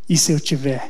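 put-on smiling voice. Recounting what a stranger said to her, the speaker retells a line said smiling. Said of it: "ele virou assim com um sorriso".

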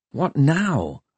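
high, thin, small, frightened voice. Facing locked doors and a high balcony, she asks her companion, high and thin with fright. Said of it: "hearing her own voice high and thin with fright".

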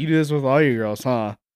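put-on smug, cocky, knowing needling tone. Retelling what she said about the movie, mimicking her cocky tone. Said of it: "in a cocky way, she's like".

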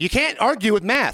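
high-pitched, yelled, shouted across a room. Retelling an argument about food wait times; retelling a yelled retort. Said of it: "so we're yelling a lot".

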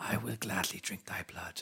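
creepy, eerie, breathy whispered voice. Describing how an imagined talking sword should sound, whispery voice. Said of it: "a whispery like".

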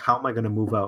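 ordinary talk

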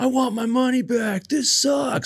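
very high, shrill, drawn-out yelling outburst. Retelling how a man on stage yelled at a doll; retelling a yell. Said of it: "Like he's yelling at the doll".

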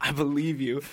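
close, hushed half-whisper. Recounting being kicked out, quoting what he half-whispered in his ear, retelling a half-whisper. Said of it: "he whispers in my ear like".

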